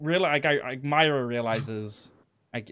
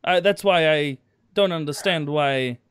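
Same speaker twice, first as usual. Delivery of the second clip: put-on broken German accent; 3 dB louder than usual. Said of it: "playing on the I don't understand English".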